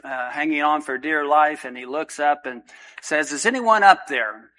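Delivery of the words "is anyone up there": calling out. Acted. Man hanging from cliff calls.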